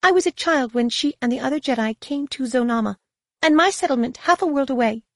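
high, distant guide's voice; frosty Feroan guide. A narrator's reading. Guide tells Jacen about her childhood, frostily. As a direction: aloof woman guide, pitched well up.

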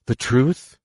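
cutting in. A narrator's reading. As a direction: seize on the word. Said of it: "Leia broke in".

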